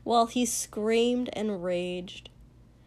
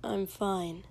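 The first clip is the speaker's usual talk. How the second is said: rote; 3 semitones lower, 6 dB quieter than usual. A narrator's reading. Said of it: "like it was rote this time".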